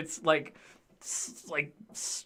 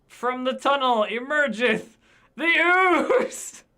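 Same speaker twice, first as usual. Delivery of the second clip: dramatic narration; 8 semitones higher, 6 dB louder, much slower than usual. A narrator's reading. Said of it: "And then the ooze emergeth".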